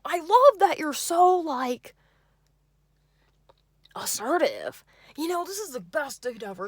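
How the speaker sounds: mocking yay voice. Date gushes about the place in a high, goofy voice. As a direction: ham up his overeager voice. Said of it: "yay voice".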